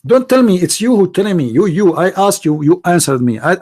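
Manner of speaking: normal talking voice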